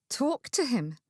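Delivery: disbelieving echo of TALK TO HIM; stunned, questioning repeat; incredulous. Acted. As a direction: throw it back in astonishment. Incredulous echo, mouth dropped open.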